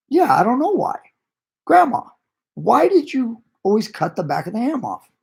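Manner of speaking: retold husband shouting the question up to grandma; calling to grandma.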